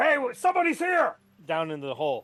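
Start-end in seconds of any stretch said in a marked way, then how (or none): 0.0-1.2 very high, loud, alarmed yelling. Voicing a guard who spots an intruder: NPC yelling an alarm. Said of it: "He's gonna immediately yell".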